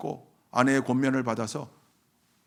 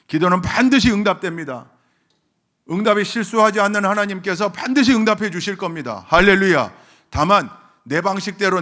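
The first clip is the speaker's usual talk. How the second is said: loud, high emphatic proclamation; full-force preaching; 6 semitones higher, 9 dB louder than usual. Real, not acted. Preacher assuring congregation that prayer is answered, full-force preaching. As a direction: proclaim it with pulpit fervor, bursting on hallelujah.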